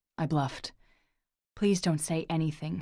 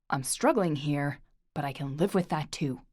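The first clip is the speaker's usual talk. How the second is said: 1 pleading; 5 dB louder than usual. Acted. Lorcan pleads, pinning Orla.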